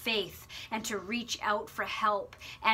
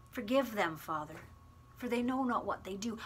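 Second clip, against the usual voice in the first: quiet plea; 7 dB quieter than usual. Acted. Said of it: "Jesus says".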